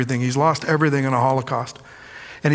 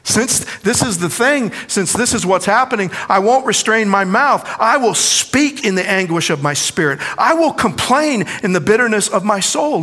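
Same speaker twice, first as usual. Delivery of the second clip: raised, anguished reading; Job's lament; 6 semitones higher than usual. Acted. Preacher voicing Job to the church, raised anguish. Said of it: "he says".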